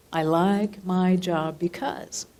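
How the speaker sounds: slow and deliberate, rising at the end on "because"; dictating again, tune lifting at the end; slow dictation, rising. Shown as a demonstration. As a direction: repeat "I like my job because" slowly with a lift at the end. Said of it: "jot on the very top".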